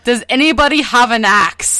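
lightly imitated Russian accent; mild comic Russian accent. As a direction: ask it as a mock Russian rescuer. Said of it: "giving him a Russian accent in English".

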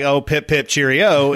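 mock British catchphrase accent; stereotype British. Getting into the accent for a joke, stereotype British. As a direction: play up the British cliché lightly. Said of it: "with a British".

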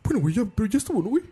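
high, tipsy sentimental pleading; sentimental drunk. Retold or imitated. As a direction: imitate a mushy drunk friend. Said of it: "Duarte borracho se pone como".

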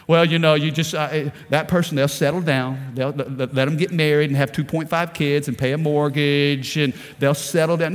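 a hint of a shrugging churchgoer; mock complacent voice. Preacher mocking a complacent Christian, low and dismissive.

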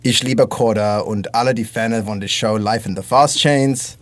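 slow, careful German phrases; speaking German for the fans; German accent. Pretend. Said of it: "that terrible German".

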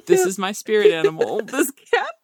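high, laughing admiration; laughing delight. Retold or imitated. Gushing over the cat on the video, laughing. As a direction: squeal it out through a laugh. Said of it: "And I was just like".

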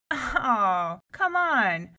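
loud, impatient scold. A narrator's reading. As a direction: snap at the timid sister. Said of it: "scolded one of her sisters".

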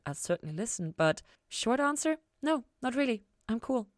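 Ella telling Lucifer she needs no answers, breezy; lightly voiced Ella. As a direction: shrug it off kindly. Ella's reassuring answer.

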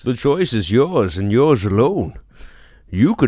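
booming dramatic announcer; loud, grand voice of doom; movie trailer voice. Acted.

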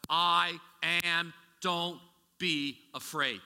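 Jesus declaring. Retold or imitated. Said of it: "he reveals himself as".

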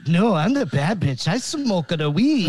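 cartoon French accent, bouncing pitch; Pepe Le Pew accent. Podcaster protesting he's the bad bitch, in a mock French accent. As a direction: insist in a hammy French accent. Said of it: "It sounds like you're Pepe Le fucking Pew".

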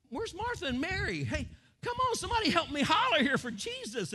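high, loud crowd member calling out; an excited onlooker hollering for Jesus. Acted. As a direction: call out across the crowd for help. Preacher voices a crowd member calling.

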